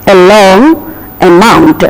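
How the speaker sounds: "a long" with a light uh, then stress; stress on second syllable. Shown as a demonstration. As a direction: weaken the a and lean on "mount" in "amount". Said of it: "the next syllable generally takes stress".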